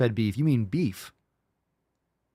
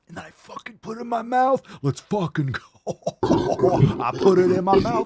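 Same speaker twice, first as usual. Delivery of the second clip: mock hype shout; 9 semitones higher, 6 dB louder than usual. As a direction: stretch it out like an over-the-top battle cry. Mock hype about eating steak.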